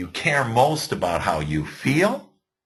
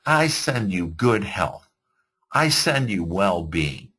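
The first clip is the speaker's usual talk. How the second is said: sincere blessing. Shown as a demonstration. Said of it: "Instead, say".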